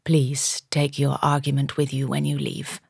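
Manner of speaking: plummy English gentleman, crispness sliced off; lightly drawled upper-class English; slight upper-class drawl. A narrator's reading. Gentleman showing her the door, upper-class English drawl. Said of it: "replaced by a slight drawl".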